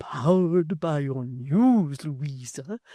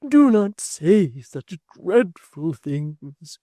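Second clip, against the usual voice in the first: urging plea; 4 semitones higher, 11 dB louder, much slower than usual. A narrator's reading. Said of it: "urged Miss Tox".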